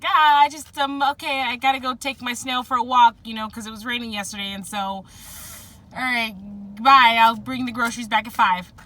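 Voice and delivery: high, loud, flustered babbling excuse; awkward crush. Retold or imitated. Flustered teen fleeing the person they like, high and loud. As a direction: blurt it out like you're panicking near your crush. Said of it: "you're kinda like".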